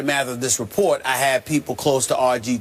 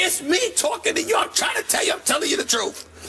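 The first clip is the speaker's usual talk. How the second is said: excited insistence. Real, not acted. Insisting it is him.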